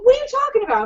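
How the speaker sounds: high, baffled question; incredulous mock exasperation; retold bewilderment. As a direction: act out not understanding a panicking friend. Retelling her bewildered reply.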